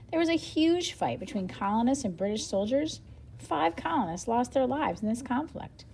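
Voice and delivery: lively storybook read with a light reporter and Paul voice; reading aloud to children. Acted. Teacher reading the interview aloud to her class, lively storybook style. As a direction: read it brightly so young listeners follow. Reads book dialogue aloud.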